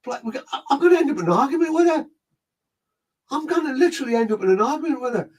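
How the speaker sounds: high, fast, laughing disbelief; exasperated laugh. Real, not acted. Medium laughing at herself, about to argue with the spirit. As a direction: laugh it out, fed up.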